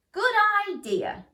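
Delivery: high, bright pleased agreement; smiling mouse. A narrator's reading. Missus Mouse smiling at Miss Rat's plan, high voice. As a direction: beam as you say it. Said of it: "smiled Missus Mouse".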